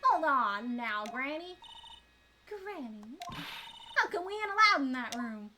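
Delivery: put-on southern accent. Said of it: "that southern accent".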